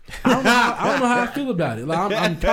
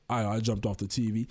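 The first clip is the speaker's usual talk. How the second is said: low, soft mock child mumble; sheepish kid; 9 semitones lower, 6 dB quieter than usual. Son admitting to dad he jumped off the TV, sheepish mumble. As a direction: answer small, like a caught kid.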